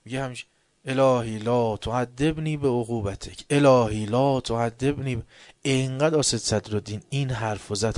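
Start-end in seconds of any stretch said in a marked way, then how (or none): 0.8-3.5 slow, measured plea to God; pleading recitation. Retold or imitated. Worshipper repeating the prayer line, slow pleading recitation. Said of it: "اینقدر گفت گریه کرد". 3.5-5.2 same slow line, pushed louder and breaking off; louder pleading repeat. Retold or imitated. Worshipper repeating the prayer again, louder and more urgent. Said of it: "اینقدر گفت گریه کرد".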